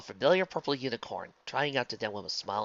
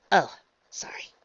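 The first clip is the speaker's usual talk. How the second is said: high, slow, airy apology; sheepish apology; 7 semitones higher, 6 dB louder, slower than usual. Acted. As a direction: trail into a near-whisper, abashed. Twilight apologising after a faux pas.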